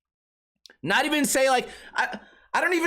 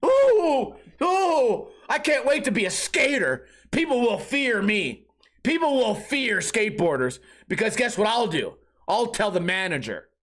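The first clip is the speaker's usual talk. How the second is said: sarcastic mock awe. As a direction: pretend to be thrilled, sarcastically.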